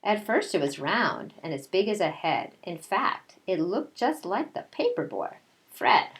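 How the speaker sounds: storybook read-aloud voice; reading to children. A narrator's reading. Teacher reading a picture book to her class, storytelling voice.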